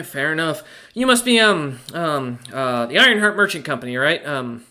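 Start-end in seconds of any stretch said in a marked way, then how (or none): 0.9-4.2 dwarf banker voice. Acted. GM voicing banker.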